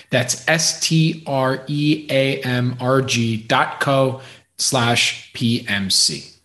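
slow, clear sponsor read. Acted. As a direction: read the sponsor spot, spelling the web address slowly.

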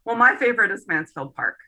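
mildly proud retold announcement. Retelling how George declared his favorite novel, mildly proud. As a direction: quote him with a touch of pride. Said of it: "George said very proudly".

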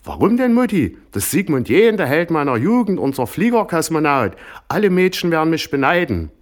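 put-on very high, loud girlish enthusiasm; starstruck gushing. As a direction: swoon over your childhood hero. Daughter gushes about hero.

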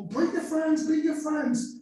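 high, sing-song begging pastor; mock pleading pastor. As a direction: imitate a pastor nagging the congregation. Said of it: "pastors love begging people".

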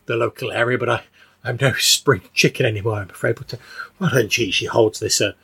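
lightly voiced chatty old woman. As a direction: fuss over him like an old churchgoer. Agnes character keeps talking.

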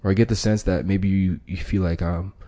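soft, gentle reassurance; calm the partner down softly; soothing labeling. Shown as a demonstration. Negotiator soothes an upset partner, softly. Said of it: "that's your labeling it".

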